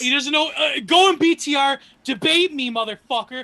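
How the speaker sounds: loud, high trash-talk promo; wrestling promo. Pretend. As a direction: yell it like a heel wrestler. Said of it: "Sorry, I'm cutting a promo".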